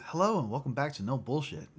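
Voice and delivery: calm deadpan channel intro; lightly voiced host greeting; imitating YouTuber intro. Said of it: "I love how he says".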